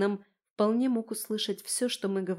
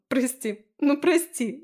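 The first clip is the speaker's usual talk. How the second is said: rising to a higher second plea; apologetic pleading; 5 semitones higher, 6 dB louder, slower than usual. A narrator's reading. Tipsy friend asks forgiveness for laughing, pleading. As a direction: beg pardon, more insistent the second time.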